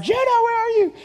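very high, loud searching yell; full-voiced re-enacted shout. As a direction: yell across the yard for your child. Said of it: "I'm yelling".

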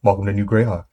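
low voice. Acted. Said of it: "that's a really good example of a low voice".

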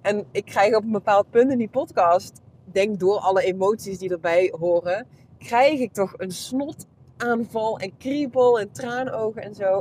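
usual speaking voice

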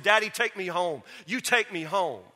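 loud, insistent plea to Daddy; retold upset demand. Upset boy tells his father to come get him, loud retold demand. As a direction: press it forcefully, as a retold demand. Angry son demands to leave camp.

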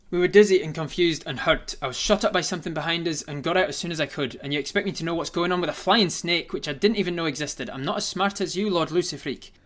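high, loud, fast panicked pleading; fearful grovelling plea. Acted. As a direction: beg in a high frantic voice. Player grovels in character to villain.

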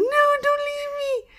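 very high slow wail; desperate plea. Retold or imitated. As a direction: beg her not to go. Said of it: "it's like".

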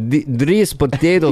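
rough mock Somali accent; lightly sketched Somali accent. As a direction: try a made-up Somali voice. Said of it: "there's nobody from Somalia".

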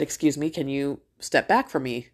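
polite, even-toned ask; retold courteous request at an easy pace; nice request. Mom first asks shoppers to step back, nicely. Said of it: "And she asked nicely".

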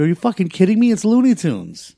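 loud, high-pitched exasperation; retold anger. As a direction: re-enact an incredulous rant at the wife. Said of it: "I got so angry".

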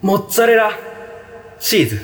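high silly voice. Pretend. Mozzarella voice-off game.

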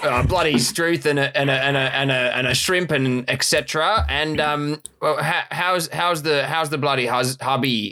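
hammed-up Aussie slang, lightly accented; Australian accent. Aussie farmer chatting over the fence in an Australian accent. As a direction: lay on the bloody and struth. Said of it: "Australian accent".

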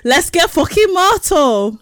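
high, slow Geordie party cry; Geordie accent. Acted. Quoting Geordie Shore catchphrase, hammed-up Geordie accent. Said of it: "Geordie Shore".

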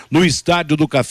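usual speaking voice

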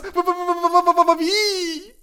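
high stuttering cry; hammed-up breaking stammer; stammering sob. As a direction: choke on the word. Stammers in grief.

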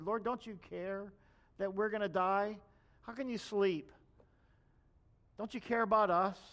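frightened disciples pleading in rising alarm; mock panic growing into a loud cry; retold panic.

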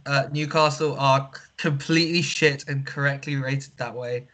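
flat robotic monotone. Acted. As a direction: talk like a deadpan robot. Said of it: "stop this stupid, like, robotic voice".

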